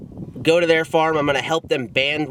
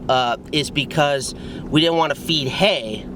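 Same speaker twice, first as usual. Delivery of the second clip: talking while bouncing down a rough road; on a bumpy road. Real, not acted. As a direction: voice jolted by a bumpy ride. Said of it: "Sorry for the bumpy ride".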